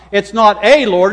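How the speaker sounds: "a" stressed as a long "ay". Shown as a demonstration. Preacher contrasting a Lord with the Lord, stress on A. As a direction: lean on "a" as the word being rejected. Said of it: "Let's emphasize the".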